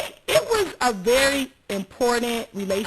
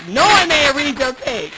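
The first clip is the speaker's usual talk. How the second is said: laughing loudly; 5 semitones higher, 10 dB louder, slower than usual. Real, not acted. Laughing exclamation about texts.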